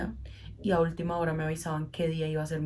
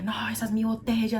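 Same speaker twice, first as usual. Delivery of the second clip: put-on higher, whiny child's protest; mock the boy insisting it's his bottle; boy claiming his bottle; child's shouted protest; 4 semitones higher than usual. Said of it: "empezó a gritar y decía".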